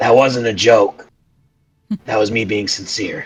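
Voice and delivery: in a whisper. Whispering in another character's ear during the game: whispering in his ear. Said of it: "I'll whisper in his ear".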